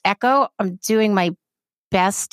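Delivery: echoey room sound; canyon echo. Real, not acted. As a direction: voice ringing with echo. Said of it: "I'm sorry about the echo".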